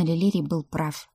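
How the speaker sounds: usual speaking voice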